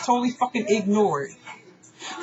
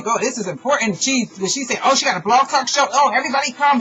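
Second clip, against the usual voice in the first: mocking gush; 4 semitones higher than usual. Mocking how others fawn over her.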